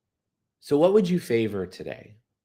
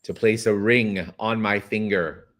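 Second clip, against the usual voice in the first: tender question. Shown as a demonstration. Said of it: "I want you to ask that money".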